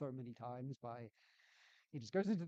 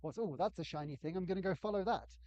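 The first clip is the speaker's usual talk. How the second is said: raised, eager playtester act; hammed-up distracted player; 5 semitones higher, 4 dB louder than usual. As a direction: act a player lured off by something shiny. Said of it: "And he'd be like".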